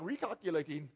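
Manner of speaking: lightly imitated British GPS lady; a hint of a British sat-nav voice; British accent. GPS lady correcting a lost driver, mock British accent. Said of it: "that's my Br-, British accent".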